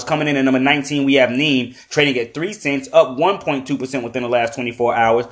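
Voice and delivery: upbeat market countdown read; top twenty countdown. Acted. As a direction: rattle off the rankings. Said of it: "run through the top twenty coins".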